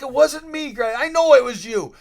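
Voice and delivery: a lightly voiced denial; mock innocent denial. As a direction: play it innocent, loudly. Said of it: "I'm like".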